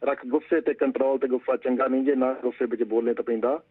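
steady recited verse, lines repeated; poem recital. Acted. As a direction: recite the couplet like a poet on stage. (ਕਵਿਤਾ ਪਾਠ ਦੇ ਅੰਦਾਜ਼ ਵਿੱਚ)

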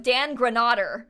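GRANADER with a broad 'ah' in the middle, "gruh-NAH-der"; imitated slow misreading, Granader as "gruh-NAH-der"; announcer's mispronounced name. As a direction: read out Granader wrongly, long AH for the middle vowel. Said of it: "said it with more British accent".

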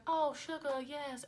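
a light mock diva flamingo coo; narrator's flamingo voice, lightly imitated; talking flamingo. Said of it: "when he does the talking flamingo".

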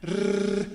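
Ř as a gentle fricative buzz; soft buzzing Ř. Shown as a demonstration. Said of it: "only it's not usually trilling so aggressively".

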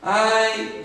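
soft, drawn-out moan; weary little whine; grumpy complaining. Acted. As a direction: grumble like someone fed up with everything. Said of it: "só reclama, mal-humorado".

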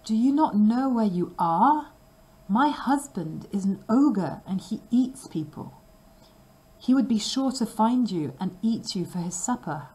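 high, urgent woman's warning, whispered in places; frightened warning. Acted. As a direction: warn him in a scared hush. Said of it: "cried the woman".

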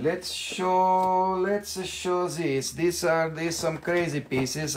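soft aside. Real, not acted. Soft aside while showing stones.

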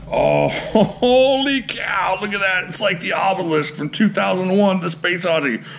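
high-pitched, laughing amazement; giddy awe, starting stretched out; awestruck excitement. Real, not acted. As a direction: marvel in a high voice at something enormous. Overwhelmed revealing huge blade.

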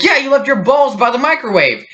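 high-pitched, emphatic mom imitation; insistent mom. Mom confirming it to confused kids, high insistent imitation.

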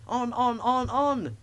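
very high, gleeful chant; laughing taunt. A narrator's reading. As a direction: egg him on noisily as silly trucks. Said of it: "laughed the trucks".

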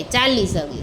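ચાલી with a clear ch sound, not હાલી; correct pronunciation. Shown as a demonstration. Teacher corrects a child's હાલી: ચાલી said with a clear ch. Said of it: "હાલી ન કહેવાય".

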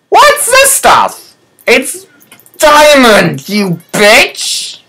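very high, silly cartoon squeak; squeaky cat voice. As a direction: play the cat as a tiny shrill critter.

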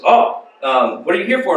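amateur imitation of an Egyptian accent; bad Egyptian accent. Egyptian man asks visitors their purpose, bad Egyptian accent. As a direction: ask in a badly faked Egyptian accent. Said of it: "That's a really bad Egyptian accent".

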